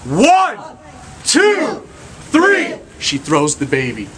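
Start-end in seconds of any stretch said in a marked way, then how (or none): 0.1-2.8 leading the count. Real, not acted. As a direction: count the crowd in, building to three. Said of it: "on the count of three".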